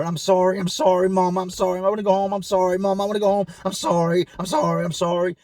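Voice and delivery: high, whimpering repeated sorry; imitated crying cellmate begging; whimpering apology. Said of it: "he would let a whimper".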